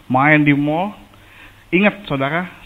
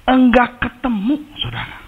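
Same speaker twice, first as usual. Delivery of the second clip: despairing cry; 7 semitones higher than usual. Retold or imitated. Repeats the line out loud.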